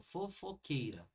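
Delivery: "fofoqueira" said slowly; slow demonstration. Shown as a demonstration. Teacher showing the class how words split, slow. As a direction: sound out "fofoqueira" syllable by syllable. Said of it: "na nossa dicção mesmo".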